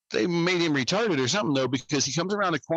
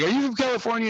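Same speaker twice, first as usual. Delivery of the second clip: cheesy flirt, higher; lightly voiced smarmy guy asking; mock pickup line; 10 semitones higher, faster than usual. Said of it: "So he's like".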